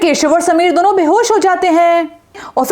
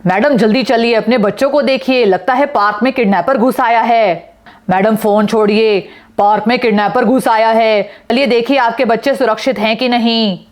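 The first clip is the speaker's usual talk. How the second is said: lower, urgent man's voice; urgent father; 5 semitones lower than usual. Acted. Yana's father urges a mother off her phone, low and urgent. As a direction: hurry the distracted mother along.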